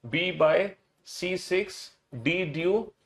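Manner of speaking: measured chant with rising pair endings; sing-song alphabet drill in even pairs; model recitation. Shown as a demonstration. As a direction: recite a memory list for the class. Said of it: "जैसे मैं बोल रहा हूं ना बिल्कुल same".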